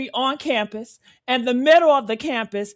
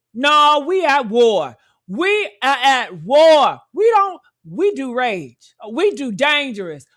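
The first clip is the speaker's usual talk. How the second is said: angry declaration; 4 dB louder than usual. Real, not acted. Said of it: "I am mad".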